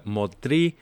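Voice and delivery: name said with a French-style accent; French-accented "Motri". Real, not acted. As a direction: give the surname a slight French accent. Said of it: "so what's with the accent?".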